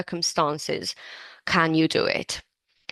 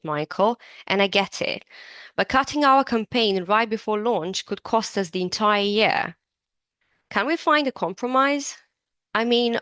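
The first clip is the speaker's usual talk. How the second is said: lightly acted colleague pleading for a compromise; reading a dialogue part; 2 semitones higher than usual. Colleague asks Michael for a compromise, lightly acted and earnest. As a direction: read it as a mildly earnest business partner. Reads a dialogue role aloud.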